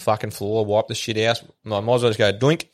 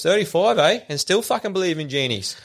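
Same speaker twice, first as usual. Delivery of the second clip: mocking; 6 semitones higher than usual. Genie's mocking punchline.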